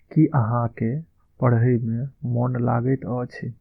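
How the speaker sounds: slow, deliberate Maithili model line; slow model phrase. Shown as a demonstration. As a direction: lay each word out slowly for the class. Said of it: "Maithili में इसका हम उच्चारण इस तरह से करेंगे".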